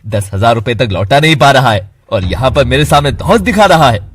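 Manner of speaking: loud, mocking challenge; taunting anger. Friend mocking Keshav's threat, loud taunting. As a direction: sneer the dare at him.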